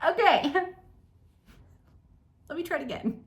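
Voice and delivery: ordinary talk, nothing marked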